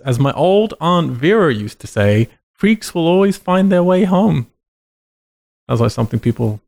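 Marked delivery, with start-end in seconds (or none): 0.1-4.5 lightly hammed solemn movie doctor; ominous doctor quote. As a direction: intone it like grave wisdom. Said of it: "And then he says".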